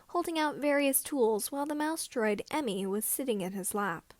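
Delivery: usual speaking voice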